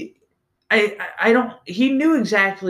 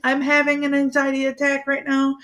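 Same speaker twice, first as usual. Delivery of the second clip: panic attack; 8 semitones higher than usual. Retold or imitated. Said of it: "I had a really bad panic attack".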